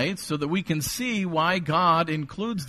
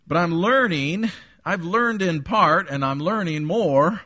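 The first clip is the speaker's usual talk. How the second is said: emphatic preaching; 5 semitones higher, 5 dB louder than usual. Real, not acted.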